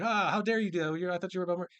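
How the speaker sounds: lightly hammed-up indignant protest; mock outrage. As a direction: act appalled, half in jest. Acting out accusers' feigned outrage.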